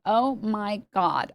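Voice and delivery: put-on lightly done Valley Girl, stretched out; slow, drawling Valley Girl demo. Shown as a demonstration. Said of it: "I think the Valley Girl is like".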